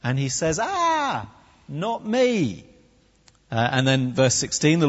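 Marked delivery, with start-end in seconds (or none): 0.6-2.6 high, hammed-up wail of dread; panicked refusal. Gideon commanded to save Israel, panicked. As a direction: wail it in mock panic, then fall. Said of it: "he has been commanded to save Israel".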